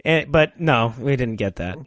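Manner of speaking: ordinary talk, nothing marked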